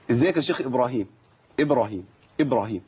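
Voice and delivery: إبراهيم said clearly and naturally; correct pronunciation. Shown as a demonstration. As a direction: say إبراهيم cleanly, twice. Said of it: "مقبولة، صح؟".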